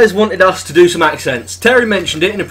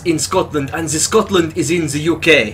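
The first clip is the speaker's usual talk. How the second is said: put-on French accent; 3 semitones lower than usual. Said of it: "I've got French".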